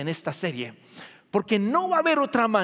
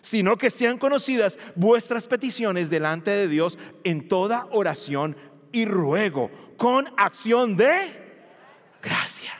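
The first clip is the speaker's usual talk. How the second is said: scripture reading. Shown as a demonstration. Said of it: "La Reina Valera".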